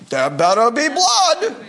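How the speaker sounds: laughing through a hammed-up Jewish accent. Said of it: "with quite the Jewish accent".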